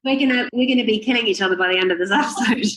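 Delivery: fast, high, giggly joke; laughing joke. Real, not acted. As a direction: rattle it off while laughing. Joking while both laugh.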